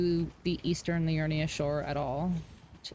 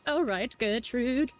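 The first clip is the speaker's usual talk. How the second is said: slow, lightly voiced old lady; 5 semitones higher than usual. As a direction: answer like a drawling old lady. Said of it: "when you do an old lady voice".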